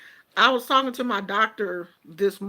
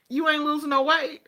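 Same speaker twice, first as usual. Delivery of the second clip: quoting the doctor while laughing; can't keep a straight face on the doctor's line; laughing through the quote; 6 semitones higher, faster than usual. Retold or imitated. A patient retelling her doctor's joke, laughing. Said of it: "She was like".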